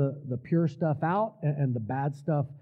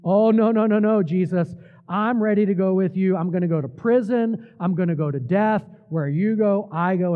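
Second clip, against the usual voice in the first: louder, brash, self-important protest; cocky overconfident vow, raised voice; boastful conceit; 3 semitones higher, 5 dB louder than usual. Acted. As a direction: play Peter puffed up with pride. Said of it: "in utter self-exaltation and conceit".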